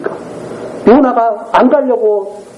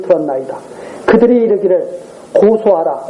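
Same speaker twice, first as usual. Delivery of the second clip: measured, lower-pitched Bible reading; scripture reading; 4 semitones lower than usual. Real, not acted. Preacher reads the prophet's lament to the congregation, formal scripture reading. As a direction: read the passage out formally and evenly.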